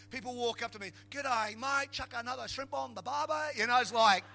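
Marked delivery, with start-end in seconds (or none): 1.1-3.6 hammed-up mock Australian accent; put-on Aussie twang, slightly raised; imitated Australian accent. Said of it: "trying to do an Australian accent".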